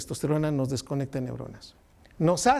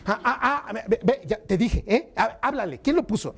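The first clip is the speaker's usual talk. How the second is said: egging on a fight; 5 semitones higher than usual. Retold or imitated. Fight-seeker stirring up a brawl.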